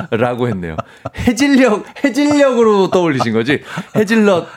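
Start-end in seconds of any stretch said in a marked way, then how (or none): 1.2-4.5 bubbling with amusement; excited. Real, not acted. Excited retelling, laughing.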